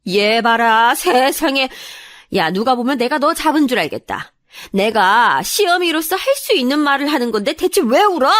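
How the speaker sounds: high-pitched, incredulous mother-in-law; indignant, building to a sharp demand; exasperated disbelief. A narrator's reading. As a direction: scoff as if you can't believe her nerve. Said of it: "기가 막히다는 듯이 말씀하시더라고요".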